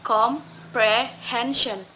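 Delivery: comprehension slowly split, com, pre, HEN-sion; syllable by syllable. Shown as a demonstration. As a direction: break comprehension into slow syllables. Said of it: "second to the last syllables".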